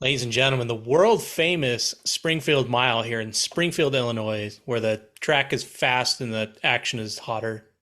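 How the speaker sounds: big arena announcer intro. Pretend. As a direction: announce it like a race PA. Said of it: "do it in your announcer voice".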